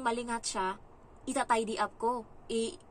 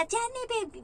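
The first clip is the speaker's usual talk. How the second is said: calling out; 12 semitones higher, slower than usual. Retold or imitated. Mother calling her child.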